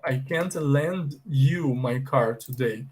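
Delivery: slow, each word set apart; slow model sentence. Shown as a demonstration. Teacher repeating the mom's line, slowly and clearly. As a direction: read it slowly so learners catch it. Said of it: "Ok, ó".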